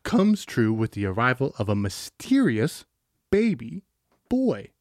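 dramatic trailer narration; movie trailer voice. Acted. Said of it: "Go back to your first voice".

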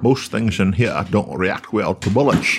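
Sean Connery impression. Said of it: "Red October".

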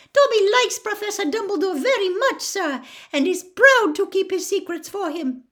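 high squeaky elf, proud; Dobby the loyal house elf. Acted. Dobby keeps Dumbledore's secrets, proud squeak.

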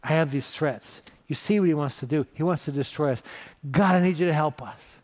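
halting plea, lightly tearful; weeping prayer, acted. Hezekiah spreading the threatening letter before the Lord, understated weeping plea. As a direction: plead with God in short broken phrases, mock-weeping. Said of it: "He's weeping".

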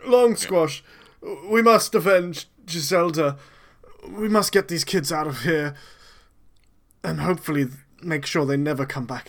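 a hint of a chirpy gnome; perky little gnome voice. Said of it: "is this your gnome voice?".

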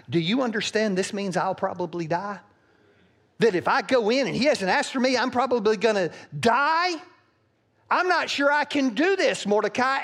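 high, loud, anxious pleading; fearful plea. Acted. Queen pleading with Mordecai, high and frightened. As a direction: beg him, terrified you'll die. Esther fears going to king.

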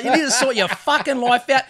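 mild re-enacted scolding; firm retold lecture; retold laying into someone. Storyteller lecturing the young car thief, mildly heated. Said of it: "I just started laying into him".

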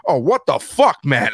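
mock outrage. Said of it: "the whole audience was like".

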